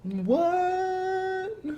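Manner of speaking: high, drawn-out stunned what; hammed-up squeak of surprise; mock shock. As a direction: play total disbelief. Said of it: "And I'm just like".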